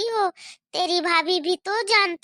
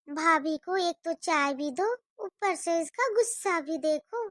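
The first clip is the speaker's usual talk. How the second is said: softer, lower grumble to herself; muttered aside; 3 semitones lower, 5 dB quieter than usual. Acted. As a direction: grumble under your breath. Bua grumbles aside after scolding. (धीमे से बड़बड़ाना)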